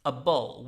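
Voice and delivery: ABLE said "uh-bul"; weak "-able" ending. Shown as a demonstration. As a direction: reduce ABLE to "a bull". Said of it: "this becomes a bull".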